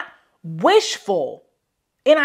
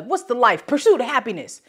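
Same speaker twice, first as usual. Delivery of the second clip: ordinary talk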